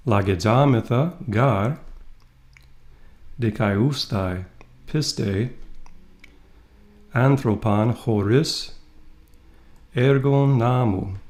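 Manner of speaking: slow, measured reading of Greek; read-along Greek. Shown as a demonstration. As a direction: read it out slowly for students to follow, phrase by phrase. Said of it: "And read with me".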